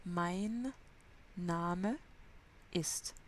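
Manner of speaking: Name with its final E sounded, word by word; final E heard. Shown as a demonstration. Teacher stressing the final E of Name. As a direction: let the E at the end of Name ring. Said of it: "il faut entendre le E à la fin".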